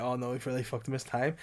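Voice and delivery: quiet. Retold or imitated. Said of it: "And we were like".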